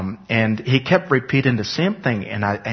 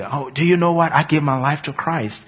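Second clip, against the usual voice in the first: higher, eager announcing; bursting to tell everyone the news; excited news; 5 semitones higher than usual. Retold or imitated. Boy eagerly telling anybody he sees, excited and higher.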